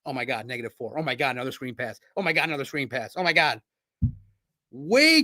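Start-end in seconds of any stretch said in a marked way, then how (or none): 0.1-3.6 low, hushed mock muttering; imitating the head coach. Streamer mimics the coach groaning over bad plays, low and hushed. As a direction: mutter each play like a dismayed coach, low and quiet. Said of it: "He's clicking, going".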